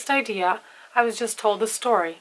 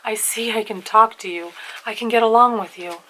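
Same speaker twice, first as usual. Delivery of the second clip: emotional plea; 3 semitones higher, 4 dB louder than usual. Acted. Karamazov begging to kiss the elder's hand, emotional. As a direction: keep the fervour going. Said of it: "he cried out emotionally".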